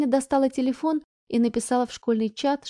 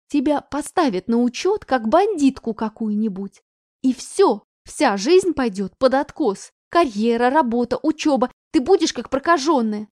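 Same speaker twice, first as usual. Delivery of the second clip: loud warning; 5 dB louder than usual. Acted. Mother warning daughter.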